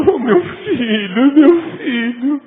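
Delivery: slow, high, tearful lament; crying parent. Retold or imitated. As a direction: cry out for a lost son. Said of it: "fica chorando".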